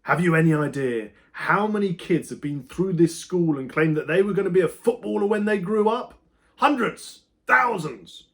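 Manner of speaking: high, loud furious rant; angry teacher ranting at a daydreaming boy; raging teacher. A narrator's reading. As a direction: let the rage climb to a peak. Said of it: "it drove Pratley wild with rage".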